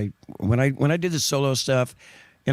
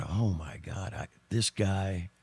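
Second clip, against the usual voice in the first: awed murmur; 6 semitones lower, 9 dB quieter, slower than usual. Retold or imitated. Retold awe watching drummer.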